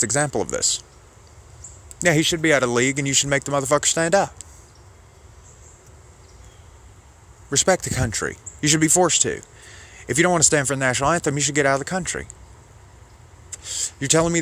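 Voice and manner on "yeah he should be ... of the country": higher-pitched, hurried imitation of an indignant patriot; mock indignant right-winger. Host imitating right-wingers reacting to Colin Kaepernick, mock indignation. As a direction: lightly mimic someone demanding respect for the country.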